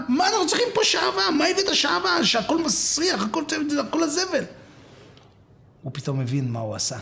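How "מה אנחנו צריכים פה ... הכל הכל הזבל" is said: high, indignant scolding; outraged wife. Acted. Wife berating husband for bringing stinking wax, outraged. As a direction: rant at him in a raised pitch.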